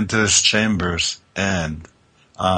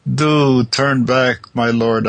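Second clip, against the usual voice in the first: wailing plea; 5 semitones higher, slower than usual. Acted. Abandoned bride calls after her lord, wailing slowly. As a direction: cry out slowly after a lost love. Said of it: "I wailed".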